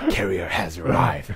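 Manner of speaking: deep announcer voice. Hosts trying out voice imitations, one says a game line: StarCraft unit voice impression. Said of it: "스타크래프트 유닛 성대모사".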